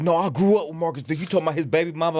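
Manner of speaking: lightly voiced drunk; drunk guy voice.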